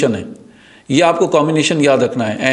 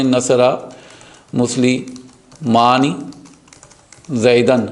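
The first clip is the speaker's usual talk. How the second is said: slow demo; much slower than usual. Shown as a demonstration. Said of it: "slow demo".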